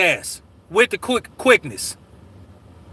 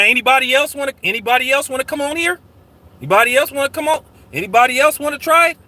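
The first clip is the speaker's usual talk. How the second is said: fast challenge; 3 semitones higher, faster than usual. Real, not acted. Challenging the whole chat.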